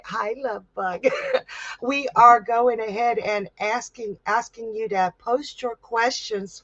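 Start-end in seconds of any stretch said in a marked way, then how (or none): 0.0-1.0 cutesy greeting. Real, not acted. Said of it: "instead of just saying hi".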